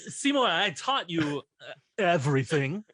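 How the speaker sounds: a light Walken halting delivery; Christopher Walken impression. Lightly voiced Walken as Mr. Mushnick to Seymour. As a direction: pause oddly like Christopher Walken. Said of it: "I can't really do Christopher Walken".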